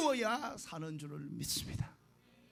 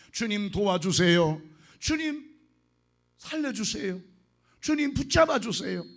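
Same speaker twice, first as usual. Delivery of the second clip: crying out prayer; 6 dB louder than usual. Shown as a demonstration. Pastor cries out a model prayer.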